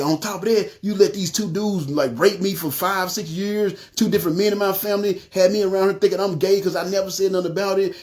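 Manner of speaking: retold accusation, mildly indignant; going off on God. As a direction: keep piling grievances on God, slightly heated. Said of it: "I'm just going off on God".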